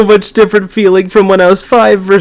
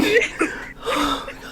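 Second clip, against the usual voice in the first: laughing; 7 semitones higher, 14 dB quieter, much slower than usual. Real, not acted. Collapses laughing.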